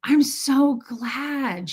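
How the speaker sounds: very slow, earnest imitation; retold sincere gladness, lingering on each word; heartfelt. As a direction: draw it out as if deeply touched. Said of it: "she took that to heart".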